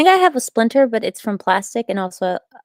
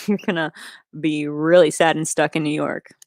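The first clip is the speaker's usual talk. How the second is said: whisper; 5 semitones lower than usual. Real, not acted. Whispered aside.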